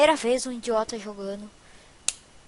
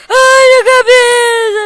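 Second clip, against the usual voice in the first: sudden loud, higher cry of alarm; panicked yell; 8 semitones higher, 12 dB louder than usual. Real, not acted. Player startled by his block head, loud panicked yell. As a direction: blurt it out in shock, loud and high.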